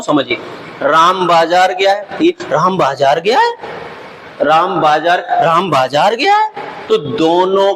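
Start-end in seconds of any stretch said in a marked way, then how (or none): 0.8-2.2 राम बाजार गया है said in a touch of wonder, गया lifted; surprised exclamation. Shown as a demonstration. Teacher showing students how the exclamation sounds, mildly surprised. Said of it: "आश्चर्य की भावना से मैं बोल के समझाता हूं". 2.4-6.7 surprised exclamation. Shown as a demonstration. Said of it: "आश्चर्य की भावना से मैं बोल के समझाता हूं".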